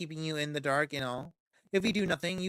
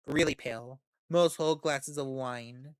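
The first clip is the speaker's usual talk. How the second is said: ordinary talk, nothing marked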